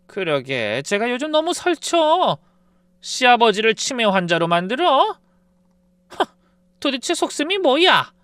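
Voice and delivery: mother-in-law piling on the daughter-in-law; scolding mother-in-law. A narrator's reading. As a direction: sneer down at her like a mother-in-law. Mother-in-law joins the attack.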